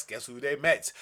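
ordinary delivery

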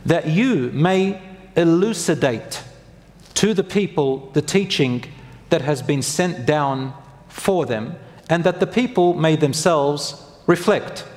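slow, deliberate verse reading; scripture recitation. Acted. Preacher quotes a Quran verse to congregation, slow solemn recitation. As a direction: give each phrase of scripture room, slowly.

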